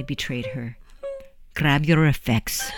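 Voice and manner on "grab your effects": softer and slow, gentle but firm; calm a frightened girl with gentle firmness. Acted. John Allen kneeling by the sobbing girl, soft but firm. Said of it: "he said in a soft but firm manner".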